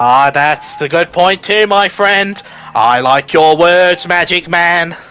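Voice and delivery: put-on Boston accent. Joking about riding in a car, in a JFK voice. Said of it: "doing the J F K voice".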